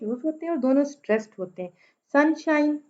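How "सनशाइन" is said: सनशाइन with sun and shine hit equally; both syllables stressed. Shown as a demonstration. Teacher demonstrating a spondee, both syllables stressed. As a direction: give both halves of सनशाइन equal weight. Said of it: "दोनों stressed हैं".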